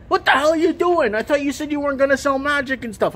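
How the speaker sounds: high, indignant what the hell; replaying his own shocked protest at the owner; retold indignant outburst. The speaker retells protesting to the rival owner, high indignant.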